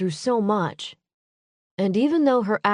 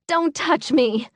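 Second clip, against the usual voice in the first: slow, higher, venomous warning; 8 semitones higher than usual. Acted. Maisie pushing Adam away after the killing, venomous. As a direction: spit the words out slowly. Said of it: "she said in a venomous tone".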